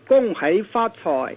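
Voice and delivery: "恭喜发财" said as a Cantonese greeting; spoken in Cantonese. Shown as a demonstration. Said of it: "kind of, you know, Cantonese".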